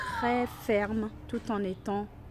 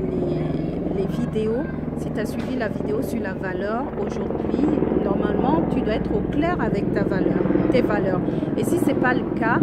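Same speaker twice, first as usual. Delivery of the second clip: on a bumpy road; 8 dB louder than usual. Real, not acted. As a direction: voice jolted by bumps. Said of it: "ça secoue".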